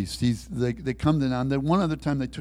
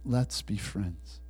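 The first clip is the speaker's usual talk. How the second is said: slow, softer, steady insistence; quietly insistent; 2 semitones lower, 5 dB quieter, slower than usual. Retold or imitated. Prisoner keeps asking his jailer for friendship, quietly insistent. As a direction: press the point slowly without raising your voice. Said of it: "Dan's insistent".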